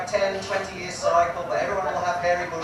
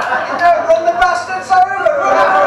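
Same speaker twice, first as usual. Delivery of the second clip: much higher, loud, laughing through it; 13 semitones higher, 13 dB louder than usual. Real, not acted. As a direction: cackle the punchline out.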